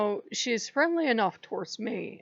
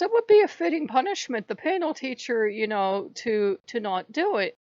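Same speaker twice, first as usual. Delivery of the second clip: goddess voice; 4 semitones higher, 4 dB louder than usual. Retold or imitated. Goddess voiced in retold argument.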